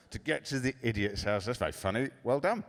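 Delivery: understated, feigned amusement; indulgent dad. Retold or imitated. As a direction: humour the child without real delight. Dad humours daughter's joke.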